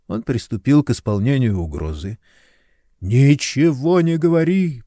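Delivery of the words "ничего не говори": ordinary delivery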